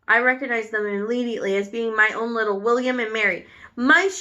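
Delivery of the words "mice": higher, louder shout of "Mice!"; a crowd of witches shouting, higher and louder. A narrator's reading. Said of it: "shouted the audience".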